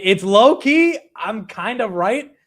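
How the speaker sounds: usual speaking voice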